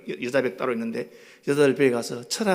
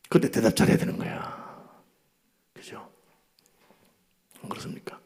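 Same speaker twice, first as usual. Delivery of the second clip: whispered aside; 5 semitones lower than usual. Real, not acted. Preacher whispers a warning to the congregation.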